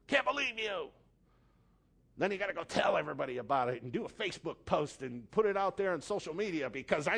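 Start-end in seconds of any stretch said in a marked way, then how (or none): 0.0-0.9 high, loud indignant outburst; mock outrage. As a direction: overplay the offended person. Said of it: "you're just like".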